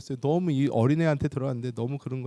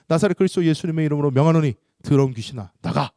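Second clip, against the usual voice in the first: forceful, rapid-fire formula of command; commanding exorcism; 7 dB louder than usual. Retold or imitated. Exorcist orders a demon out, forceful command. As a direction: order the spirit out with authority.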